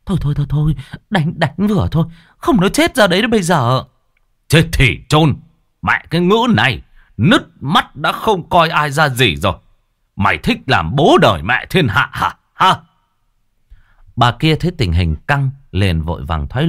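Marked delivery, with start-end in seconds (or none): 0.0-3.8 high, rushed pleading wife; wife begging her husband to stop beating their daughter. Acted. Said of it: "Cô vội vàng chạy lại can". 4.5-12.8 raging father. Acted.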